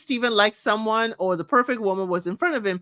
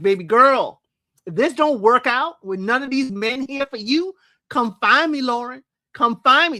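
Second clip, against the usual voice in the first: flirty player line; 3 semitones higher, 4 dB louder than usual. Retold or imitated. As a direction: lightly play Steven as a flirty player. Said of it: "That's what it was sounding like".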